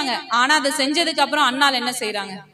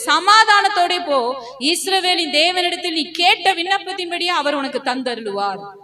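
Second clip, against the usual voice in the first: proclaimed blessing; 3 semitones higher than usual. Acted. Word from God's presence to Annal, proclaimed as a blessing.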